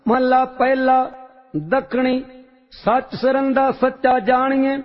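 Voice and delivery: steady, measured recitation of a sacred hymn; devotional scripture recitation. Real, not acted. Reciter chanting Vadhans hymn to the congregation, reverent and measured. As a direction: intone each line with reverent calm.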